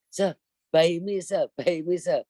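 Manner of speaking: slow street-seller call; calling out to tourists, slowly; old sales pitch. Retold or imitated. Tour guide calling to tourists, slow hawker cry. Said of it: "dulu saya nggak gitu cara jualannya".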